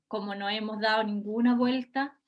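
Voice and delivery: ironic tone. Shown as a demonstration. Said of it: "con un tono, obviamente, que se note, em, la ironía".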